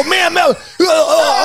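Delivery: high-pitched calls to stop someone; retold alarmed calling. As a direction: act out panicked yelling after someone in traffic. Retold calling lady out of traffic.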